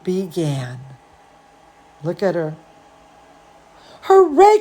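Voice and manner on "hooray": high, loud hooray; cheering call. Retold or imitated. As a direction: cheer from the audience. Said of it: "called my brother".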